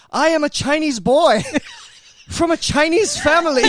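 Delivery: first take, high and loud through laughter; laughing as he quotes it. Retold or imitated. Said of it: "And he goes".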